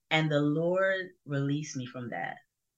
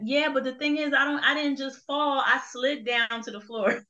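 mom explaining; 9 semitones higher than usual. Retold or imitated. Mom explains her fall on phone.

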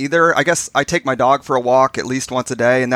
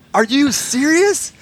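high, slow, drawn-out disbelieving cry, replayed for laughs; retold shocked outburst; 12 semitones higher, slower than usual. Husband hears from wife he snored, retelling his high, stunned cry. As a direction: stretch it out high, like you can't believe your ears. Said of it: "practically yelled it out".

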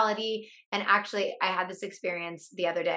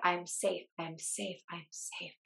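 each I'm safe softer, fading to near silence; calm yourself down, quieter and quieter; self-soothing; 11 dB quieter, slower than usual. Retold or imitated. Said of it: "The more I said it".

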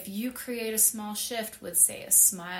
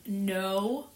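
neighbor scolding dog. Retold or imitated. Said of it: "it's constantly the".

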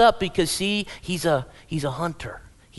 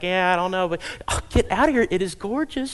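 gushing friend. Acted. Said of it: "I was like".

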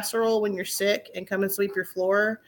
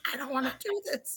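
soft, quick sulky grumble; mock defeated grumble; sulky mumble; 3 semitones higher, 10 dB quieter, faster than usual. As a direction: mutter it like a pouting kid. Sulky end of the complaint.

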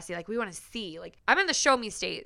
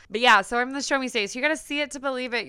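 put-on Missouri Valley Girl twist; 3 semitones higher, 7 dB louder, much faster than usual. Shown as a demonstration. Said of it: "have a Missouri Valley Girl twist to it".

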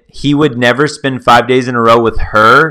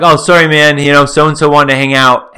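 higher-pitched, lightly acted apology; apologetic excuse; 3 semitones higher, 3 dB louder than usual. Guy bailing on his buddies for a girl, apologetic. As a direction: offer a breezy mock excuse.

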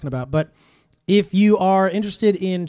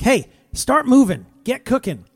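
mock hurry-up call; 6 semitones higher, 4 dB louder than usual. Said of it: "I'm like".

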